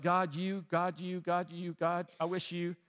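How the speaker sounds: mock grumbling on one droning pitch; repetitive, half-voiced griping at God; grumbling complaint. Believers whining at God when no breakthrough comes, grumbling. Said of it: "we're grumbling and we're complaining".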